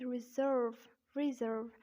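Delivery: American "reserve" with R sounded; American accent. Shown as a demonstration. Teacher contrasting for learners, American accent "reserve". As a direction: say 'ri-zurrv', American style. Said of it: "but in American accent".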